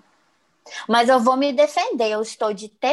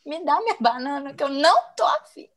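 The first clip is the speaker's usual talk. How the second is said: mock whiny threat; 3 semitones higher than usual. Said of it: "Eu falei".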